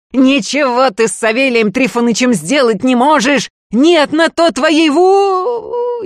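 boast, then choke mid-word; sorcerer's boast breaking into a cry as he collapses; gloat breaking off. A narrator's reading. Gloating cut off by a seizure.

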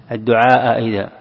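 "الدعاء إذا" with the hamzas gliding together, the first opened like an alif; eased hamza. Shown as a demonstration. Teacher explaining vowel colouring to students, eased hamza in "الدعاء إذا". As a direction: blend "الدعاء" into "إذا" without a second full stop. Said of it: "وتعطيها نوع من حرف الألف".

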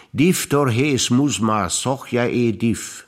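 slow, loud Vulcan words; a slow, loud Vulcan salute spoken aloud; Spock's Vulcan greeting. Acted. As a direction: intone it slowly and loudly like Spock. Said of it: "nein, an Spock".

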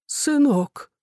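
high, stunned cry of the word Сынок!; shocked gasp. A narrator's reading. Father recognising his own son in bed, gasping in shock. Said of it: "Аркаша охнул".

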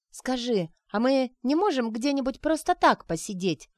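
put-on whining like a little girl. Arina whining to Grisha like a little girl. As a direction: whimper it like a spoiled small girl. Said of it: "захныкала вдруг она маленькой девочкой".

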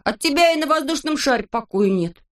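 high teasing reproach; Neznaika's voice. A narrator's reading. Neznaika chiding Vorchun, high voice. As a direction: needle the grumbler.

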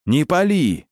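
выше, резко и отчаянно; останови его криком. Acted. Священник останавливает выстрел. (отчаянный крик)

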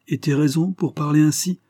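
sarcastic demand for reasons; ironic retort. Acted. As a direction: challenge with pointed irony. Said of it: "répondit ironiquement".

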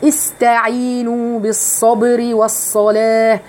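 slow chanted phrase; slow Quranic chant; tajweed recitation. Shown as a demonstration. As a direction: recite slowly and evenly. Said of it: "خلوا بالكم بقى من الصاد".

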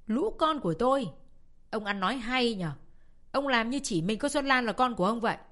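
angry retort. Acted. Wife snapping back at her husband, angry retort. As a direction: spit it back at him, offended.

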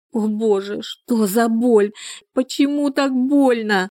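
the pain catches her by surprise; mild cry of pain. A narrator's reading. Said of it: "закричала Мила". (лёгкий крик боли)

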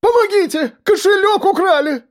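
high shrill cry; woman's cry for help. A narrator's reading. A robbed village woman cries out to the market. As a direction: scream for help in the crowd. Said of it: "раздался женский крик".

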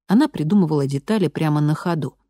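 usual speaking voice

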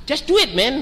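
high-pitched, exasperated mock scolding; imitated anger. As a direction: act out an angry, impatient woman. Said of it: "waktu itu marah dia gini".

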